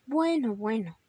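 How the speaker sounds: gentle motherly soothing; mildly comforting a tearful child; consoling. Acted. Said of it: "lo consoló mamá Conejo".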